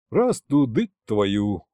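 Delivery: slow, sighing grumble; weary sigh. Acted. Fedya reacting to Snezhina's troubles, slow sighing grumble. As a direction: curse under a tired sigh. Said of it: "вздохнул и я".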